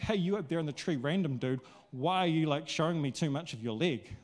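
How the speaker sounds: offhand, careless call to a stranger; casual random call. Shown as a demonstration. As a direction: toss it off like to some random dude. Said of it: "It's not like that".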